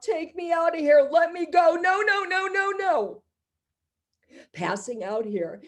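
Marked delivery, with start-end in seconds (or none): 0.0-3.2 high, rising frantic begging; desperate pleading. Acted. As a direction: beg to be let go, panicking. Victim begging to escape.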